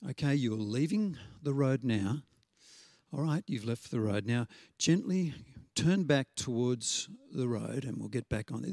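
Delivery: a hint of a patient father steering gently; very calm voice. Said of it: "in a very calm voice".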